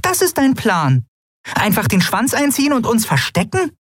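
very high, falling on "ist"; indignant Nelen. A narrator's reading. Nelen mocks the plan, high and indignant falling. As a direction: scoff at the plan. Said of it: "Hände in die Hüften gestützt".

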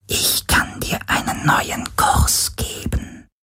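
slow, soft, haunting shadow whisper; plaintive whisper. A narrator's reading. Shadow figure tempting Garland in a slow, longing whisper. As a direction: lure him in with a mournful hush. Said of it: "Eine schöne, klagende Stimme".

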